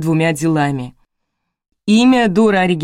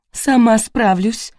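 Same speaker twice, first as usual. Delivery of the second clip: higher, slow, a touch louder sob-choked line; sobbing; 6 semitones higher, 4 dB louder, slower than usual. A narrator's reading. Widow refuses help from strangers, sobbing. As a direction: push the helpers away while breaking down. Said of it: "зарыдала Ирина".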